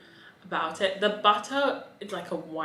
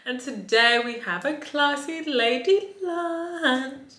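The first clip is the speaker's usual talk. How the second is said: camp it up like a drag diva; campy drag queen; 3 semitones higher, 5 dB louder than usual. Acted. Campy persona intro, darlings.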